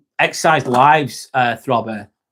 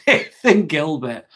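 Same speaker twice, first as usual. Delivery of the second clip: laughing; 4 semitones higher, slower than usual. Real, not acted. Laughs reading a viewer name.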